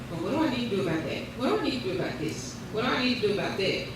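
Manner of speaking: fast worried inner questioning; rushed anxious questions. Retold or imitated. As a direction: rattle off the worries.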